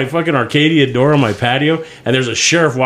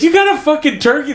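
high disbelieving voice; stoned guy asks back about the turkey, high and disbelieving; mock incredulous reply. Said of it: "It's like".

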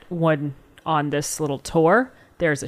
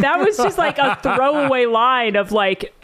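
laughing; 4 semitones higher, 3 dB louder than usual. Real, not acted. Laughing disbelief.

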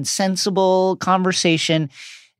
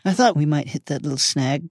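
gentle; 3 semitones lower, 4 dB quieter than usual. Acted. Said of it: "said Dumbledore gently".

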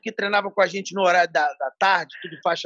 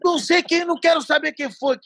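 mock defiant; 6 semitones higher than usual. Fininho declaring he fights.

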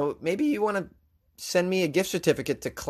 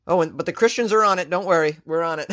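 mock reassurance; 4 semitones higher, 5 dB louder, faster than usual. Mocking Christians' confidence.

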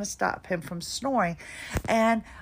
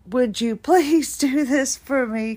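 louder, sweet overly polite asking voice; rehearsed polite request; 3 semitones higher, 6 dB louder than usual. Retold or imitated. Rehearsing what she'll ask the cleaners, overly polite. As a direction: practise asking nicely, a bit put-on. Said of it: "I was practicing my, my best".

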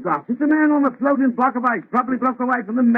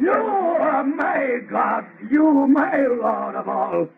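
mocking monster; slower than usual. Monster mocks the prayer.

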